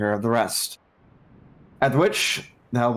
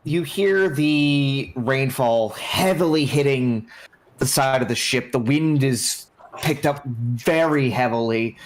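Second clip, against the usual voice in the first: game master narration. A narrator's reading.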